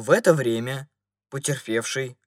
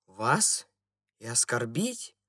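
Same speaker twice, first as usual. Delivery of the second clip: calm reply; slower than usual. A narrator's reading. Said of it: "спокойно ответил второй господин".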